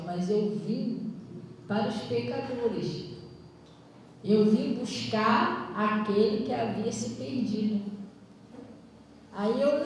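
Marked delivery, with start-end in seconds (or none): 0.1-7.9 slow, solemn divine word. Retold or imitated. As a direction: lay each word down slowly like scripture. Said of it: "aquela palavra falando assim". (a palavra de Deus, lenta e solene)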